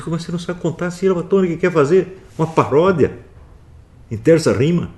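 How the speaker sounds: high, loud indignant challenge; bronca indignada. Retold or imitated. Retells his scolding of a poet. (bronca indignada, em voz alta e aguda)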